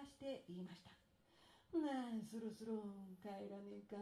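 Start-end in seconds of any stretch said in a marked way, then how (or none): 1.8-4.0 lightly voiced lazy farmer; lazy husband.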